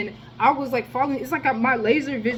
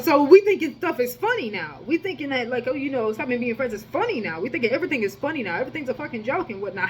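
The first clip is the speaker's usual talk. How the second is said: mock angry rant; 3 semitones higher than usual. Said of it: "I was just like".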